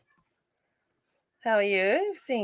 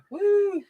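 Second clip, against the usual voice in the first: high-pitched "woo"; a high little cheer; whoop. Real, not acted. Host cheering after announcing housework, high whoop.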